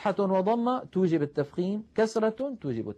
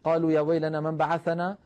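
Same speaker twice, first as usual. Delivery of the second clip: recited verse. Shown as a demonstration. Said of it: "نلاحظ هنا الراء ساكنة وقبلها مفتوح".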